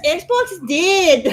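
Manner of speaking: troll voice attempt. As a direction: have a half-hearted go at a troll. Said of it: "I don't know how to do it".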